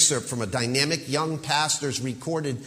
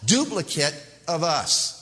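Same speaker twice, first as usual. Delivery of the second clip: fast, high preacher's voice quoting God; lightly mocking the young pastor; imitating the pastor; 4 semitones higher than usual. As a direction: rattle it off like an excited preacher. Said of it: "the pastor expounds".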